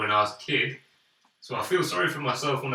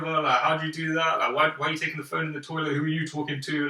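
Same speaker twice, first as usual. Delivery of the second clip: higher-pitched, lightly voiced nagging grandma; scolding grandma; 5 semitones higher than usual. Grandma comes in questioning the phone in the toilet, mock scolding. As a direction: imitate an old woman firing off questions. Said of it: "majority old women are like".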